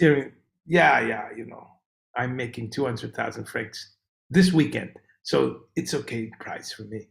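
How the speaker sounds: low, nonchalant mock-Swiss accent; unbothered local's improvised European accent; vague European accent. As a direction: shrug it off in a made-up European accent. Acted Swiss local answers shocked tourist.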